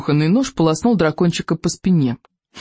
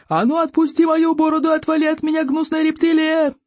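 much higher furious shout; roaring chief; 12 semitones higher than usual. Acted. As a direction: bellow at the pest to let go. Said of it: "заорал Стоик обширный".

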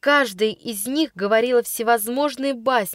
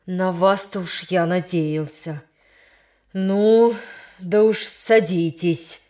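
с горечью; 3 semitones lower, slower than usual. Acted. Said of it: "присовокупил Василий Васильевич с горечью".

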